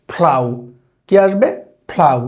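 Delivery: ফ্লাউ with an aspirated "ph" onset; correct pronunciation. Shown as a demonstration. Teacher correcting the common pronunciation. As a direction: model ফ্লাউ crisply. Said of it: "এটার pronunciation আসবে হচ্ছে".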